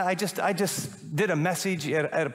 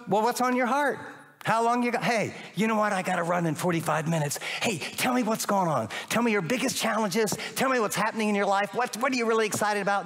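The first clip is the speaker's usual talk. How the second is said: eager friend; 5 semitones higher than usual. Acted. Acting a friend at coffee.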